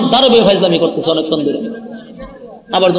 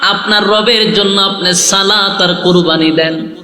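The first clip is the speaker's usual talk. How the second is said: melodic preaching; slower than usual. Real, not acted. Preacher warns only those who pray will drink, melodic preaching. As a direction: intone the warning to the congregation.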